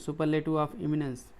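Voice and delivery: very slow, each word spelled out; slow, careful teacher read; slow term read-out. Shown as a demonstration. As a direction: say the term slowly for students to copy. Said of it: "इमिनेंस माने होता है".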